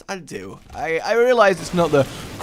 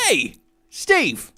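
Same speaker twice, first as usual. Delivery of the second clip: lightly voiced caveman inventor; 4 dB louder than usual. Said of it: "who is the person that went".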